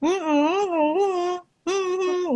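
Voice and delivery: high hums with mouth shut; closed-mouth humming. Shown as a demonstration. Demo of speech with jaw not moving, high closed hums. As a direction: hum without moving the jaw. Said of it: "ininya nggak bergerak".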